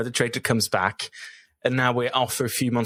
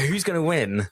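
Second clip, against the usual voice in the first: segment announcer; 4 semitones higher than usual. Acted. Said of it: "welcome to my new recurring segment".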